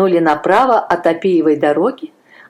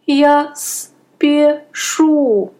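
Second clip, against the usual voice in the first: put-on slow, higher boyish stammer; 9 semitones higher, much slower than usual. A narrator's reading. A frightened boy stammers an excuse to the soldier. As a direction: stumble over the words like a scared boy. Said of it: "заикаясь".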